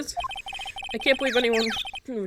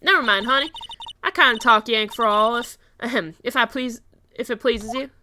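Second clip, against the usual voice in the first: improvised southern woman. Acted. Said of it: "I have no idea what voice I'm doing for her".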